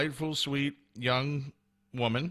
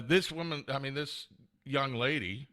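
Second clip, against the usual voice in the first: normal talking voice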